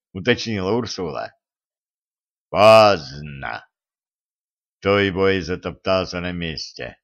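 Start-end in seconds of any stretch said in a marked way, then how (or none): 2.5-3.7 громко. A narrator's reading. Монстр.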